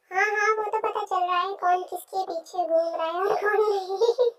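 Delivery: chuckling through the words; teasing laugh. Acted. Sister-in-law teasing the lovestruck young man, laughing. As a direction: tease him with a laugh.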